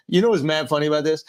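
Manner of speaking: mock casual delivery, fast; lightly imitated Andrew; imitating Andrew. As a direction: parrot his line. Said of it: "how he really talks".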